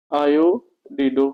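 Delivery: आयोडिडो stretched out very slowly; teacher spelling out आयोडिडो at a crawl; slow dictation. Shown as a demonstration. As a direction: dictate आयोडिडो slowly so students can copy. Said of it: "इसको क्या लिखेंगे?".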